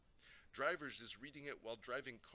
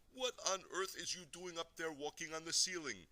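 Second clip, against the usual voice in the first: higher-pitched, scolding yell; sister's yell; 6 semitones higher, 4 dB louder than usual. A narrator's reading. Big sister catching her brother on the ceiling, yelling. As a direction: yell up at someone in disbelief. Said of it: "she is starting to yell at me".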